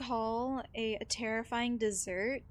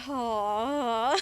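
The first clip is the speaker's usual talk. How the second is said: disappointed sigh; 7 dB louder than usual. Retold or imitated. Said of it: "the biggest just, like, sigh".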